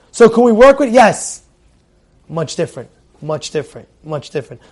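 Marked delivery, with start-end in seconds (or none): 2.3-4.6 dropped low and much softer, repeating; hushed emphasis. Acted. Rabbi to students, softly hammering home the point. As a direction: lean in and say it quietly, driving it home.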